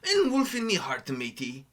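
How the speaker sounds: mock pirate calling to his crew. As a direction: ham it up like a cartoon pirate, dropping down on "matey". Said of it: "I sound more like a pirate".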